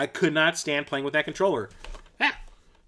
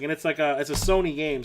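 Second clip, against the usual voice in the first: ordinary talk, nothing marked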